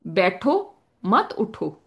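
बैठो and मत उठो said slowly, evenly weighted; slow demo phrasing. Shown as a demonstration. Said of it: "जैसे आप कहें".

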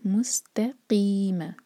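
मुस्तकीम very slow, light त, heavy क़; slow recitation. Shown as a demonstration. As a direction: recite मुस्तकीम gently, slowly. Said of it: "धीरे-धीरे पढ़ें". (मुस्तकीम आराम से)

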